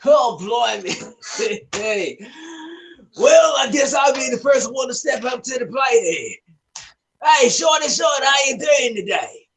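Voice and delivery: fake Australian accent. Brash Australian greeting his old friend Shorty. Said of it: "the Australian fake accent".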